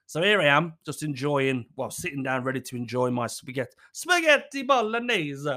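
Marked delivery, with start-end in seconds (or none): 3.9-5.5 high, drawn-out relish; relishing anticipation. Retold or imitated. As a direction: savour the dish's name slowly, pitched right up. Relishing the name of dinner.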